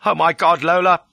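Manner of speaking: high, loud, overwrought appeal; distraught pleading. A narrator's reading. Fugitive climbing into Lola's coach, distraught. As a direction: burst out to win sympathy. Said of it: "The distraught pleading line".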